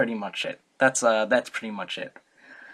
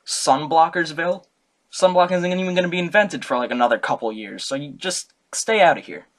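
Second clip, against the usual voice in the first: loud, higher, brash brush-off; mock cranky Diogenes; 4 semitones higher, 4 dB louder than usual. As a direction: shoo the emperor out of your sun. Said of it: "Diogenes was like".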